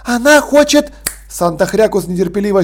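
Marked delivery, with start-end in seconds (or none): 0.0-0.9 высоким голосом, скороговоркой; быстро встревает мама; мама тараторит. Acted. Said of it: "затараторила". (мама быстро затараторила, высоко)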